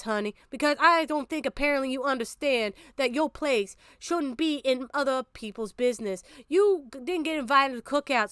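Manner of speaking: a hint of a Southern church lady scolding; mock Southern accent. Streamer mocking a critic in Southern accent. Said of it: "let me do that accent better than you".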